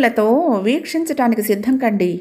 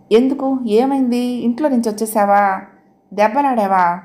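anxious. Acted. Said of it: "ఆరాటంగా అడిగింది".

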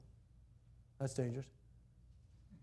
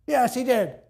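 higher, louder smug devil; Satan's retort; 8 semitones higher, 10 dB louder, slower than usual. Acted. Satan answers God smugly, high and loud. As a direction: sneer it back.

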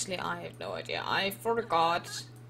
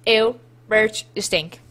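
loud, disgusted ew; 11 dB louder than usual. Pretend. Gamer yelling at her smelly sim, disgusted.

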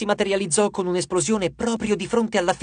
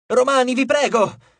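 shouting plea; 6 semitones higher, 3 dB louder than usual. A narrator's reading. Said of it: "gridava il figlio di Giove".

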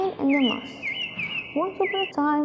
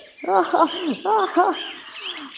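lion laughing; 5 semitones higher than usual. Acted. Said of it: "He loved, he loved".

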